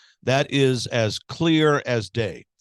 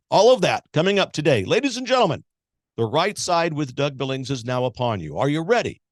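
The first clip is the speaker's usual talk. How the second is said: announcer. Acted. Show opening hype.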